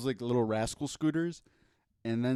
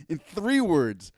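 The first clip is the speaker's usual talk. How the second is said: boxing ring announcer; 4 semitones higher, 7 dB louder, slower than usual. Acted. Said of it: "ring announcer voice".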